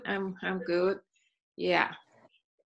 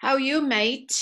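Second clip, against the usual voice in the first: higher-pitched greeting in an English accent; 4 semitones higher, much slower than usual. Shown as a demonstration. Teacher showing her student the greeting, English accent. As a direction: say "mate" with an English "ay" vowel. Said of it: "this is English accent".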